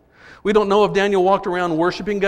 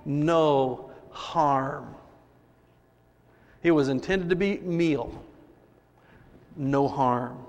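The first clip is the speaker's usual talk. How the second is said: hushed emphasis; 5 semitones lower, 6 dB quieter, much slower than usual. Acted. Soft emphatic repeat.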